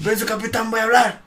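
high, formal military request; recruit reporting. Retold or imitated. Recruit asking his captain to speak, high imitated military call. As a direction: sound off like a recruit to an officer.

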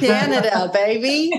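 laughing bad Canadian accent. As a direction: throw on a jokey Canadian accent. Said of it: "Was that your Canadian accent?".

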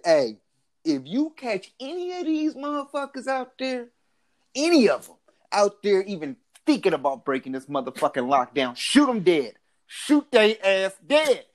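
imitating a harsh leader barking orders; hammed-up command to shoot; mock dictator order. Retold presidential order, acted.

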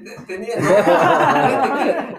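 real laughter breaking into speech; stammering with laughter. Real, not acted. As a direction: stumble over the words while cracking up. Caught out, stammers through laughter.

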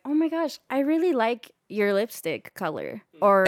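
put-on a touch of girly gushing to a stranger; girl-to-girl compliment. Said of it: "We only talk like that to other girls".

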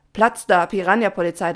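loud yet milder chorus reply; content but puzzled. A narrator's reading. The swarm answers Papa, loud, content, slightly confused. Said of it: "klang zufrieden, aber immer noch etwas verwirrt".

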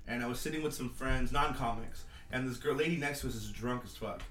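ordinary delivery

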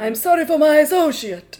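wise Gibbon. Acted. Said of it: "I'm here as the wise Gibbon".

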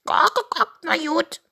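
high, loud cartoon rooster; clucking rooster. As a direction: cluck first, then give in grudgingly. Narrator voices Henry the rooster.

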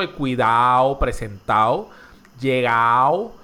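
-ado endings said as -ao; d dropped in -ado. Shown as a demonstration. Host gives examples of Caribbean speech, d dropped from -ado. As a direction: drop the d in cuidado, presentado, llegado. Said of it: "casi todos nosotros eliminamos la D".

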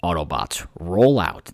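lightly voiced robot leader, starting low; a hint of a deep heroic command; Optimus Prime. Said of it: "I'm going Optimus Prime".

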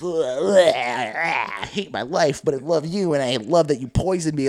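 retching into a mock love confession; hammed-up queasy lover; sick husband voice. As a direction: groan as if throwing up, then profess love. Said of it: "I'm gonna do that voice".

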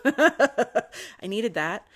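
laughing. Real, not acted. Confessing tequila helped with pain.

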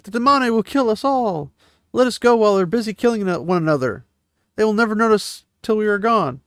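high, urgent begging to run; frightened pleading. Retold or imitated. Scared man urging escape while they fight, high urgent pleading. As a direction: plead fast before it's too late.

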